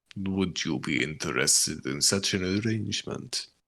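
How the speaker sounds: classic put-on vampire accent. Voicing a character in a group story scene, Dracula voice. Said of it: "I'm just hearing Dracula".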